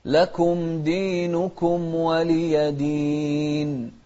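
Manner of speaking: slow melodic tajweed chant; Quran recitation. Shown as a demonstration. Teacher reciting Quran to students, slow melodic chant.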